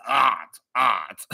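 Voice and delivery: slow snooty art-snob voice breaking into a laugh; pompous artist voice dissolving into laughter; arrogant artist. Retold or imitated. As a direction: repeat the pompous artist, cracking up. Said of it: "He says".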